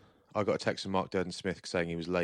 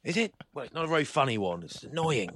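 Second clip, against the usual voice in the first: prissy posh reply; 7 semitones higher than usual. Retold or imitated. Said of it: "retold exchange with posh friend".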